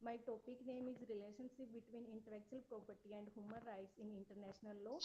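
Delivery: very quiet, hard to hear; barely audible. Real, not acted. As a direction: speak faintly, as if far from the mic. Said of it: "your voice is very less".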